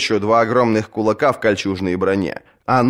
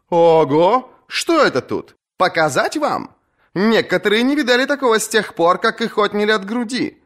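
much higher, playful mocking voice; teasing young woman; 13 semitones higher than usual. Asha teases the captains, high playful voice. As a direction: play to the crowd's laughter.

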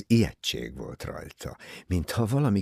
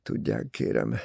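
low, effortful start; forced speech; 9 semitones lower than usual. A narrator's reading. Simon forcing himself to go on talking, strained and low. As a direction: push the words out, pitched down. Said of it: "Simon tovább erőltette a beszédet".

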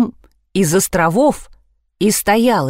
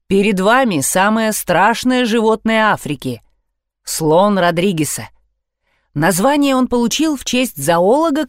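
plain reading voice

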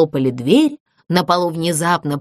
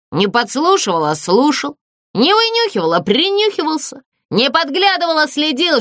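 ghost correcting her; 7 semitones higher than usual. A narrator's reading. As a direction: correct each word with injured dignity. Призрак оправдывается, передразнивая обвинения. (обиженный призрак поправляет её)

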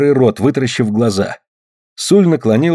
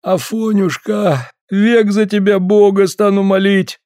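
slow, high, pitiful begging; mock moaning plea; 9 semitones higher than usual. Smolkov moans to Afanasy for water, hammed-up pitiful plea. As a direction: whimper a grateful prayer. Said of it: "простонал".

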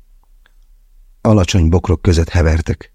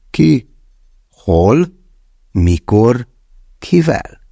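bewildered questions; 4 semitones higher, much slower than usual. A narrator's reading. Confused rapid questions in dismay.

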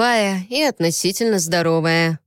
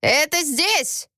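slow, high excited cry; excited exclaim; 9 semitones higher, slower than usual. Acted. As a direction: point it out eagerly, drawn out. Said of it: "воскликнул старик". (взволнованный возглас)

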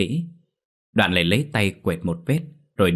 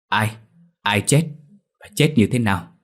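urgent questions; 2 semitones higher, 3 dB louder than usual. Acted. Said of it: "Già làng vồn vã hỏi lại".

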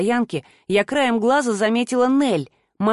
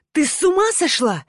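angry man; 6 semitones higher than usual. A narrator's reading. Hurt man snapping at her.

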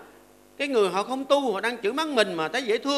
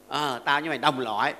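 calm retort; 7 semitones lower than usual. Acted. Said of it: "cũng còn bình tĩnh nha".

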